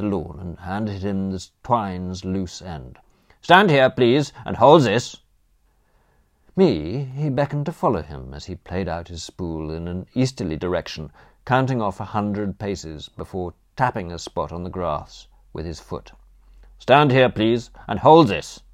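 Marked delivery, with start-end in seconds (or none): 3.4-5.2 put-on loud, commanding Austrian accent. Philosopher posting his helper with twine, Austrian accent. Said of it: "the German accent". 16.8-18.6 put-on loud, commanding Austrian accent. Philosopher posting his helper with twine, Austrian accent. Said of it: "the German accent".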